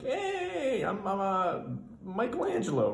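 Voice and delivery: high, hesitant, fumbling for his name; a nervous guy stumbling over his own name; goofy driver voice. Retold or imitated.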